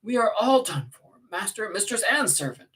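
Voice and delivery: high, loud, indignant tirade; alarmed, impassioned high-pitched rebuke; passionate outburst. Acted. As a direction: scold him frantically to get up. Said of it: "I said passionately".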